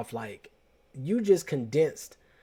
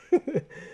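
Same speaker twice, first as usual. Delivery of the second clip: short laugh; 13 semitones higher than usual. Real, not acted. Laughs at own notes.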